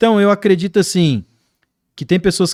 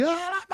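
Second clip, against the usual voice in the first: imitated outburst; 10 dB quieter than usual. Imitates the boy bursting into tongues.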